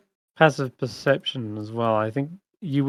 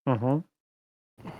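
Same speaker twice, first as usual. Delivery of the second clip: ordinary talk, nothing marked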